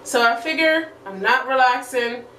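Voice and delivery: face mask limiting mouth; through a sheet mask. Real, not acted. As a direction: stiff lips under mask. Seen 0: Sheet mask covers her face and mouth area throughout; absent beforehand.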